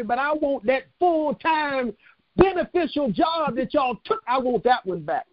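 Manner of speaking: fervent preacher building a demand; impassioned sermon; preaching. Real, not acted. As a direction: preach it with rising fire. Preaching at full force.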